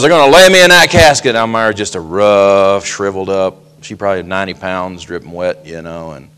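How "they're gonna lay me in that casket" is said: put-on old lady's voice. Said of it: "And she goes".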